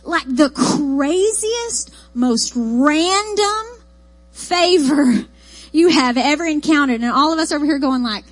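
ordinary talk

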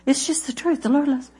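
ordinary delivery

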